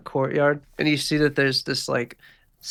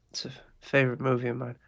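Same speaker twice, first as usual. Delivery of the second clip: whisper; 5 dB quieter, faster than usual. Acted. GM voicing Pee-wee's menacing aside.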